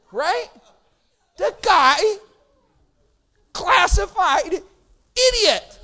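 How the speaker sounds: loud, high-pitched impassioned preaching; belted-out sermon storytelling; full-force preaching. Real, not acted. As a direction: preach it shouting to a packed hall.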